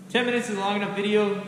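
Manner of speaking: muffled through a mask; talking through a face mask; behind welding mask. Real, not acted. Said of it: "with the mask on".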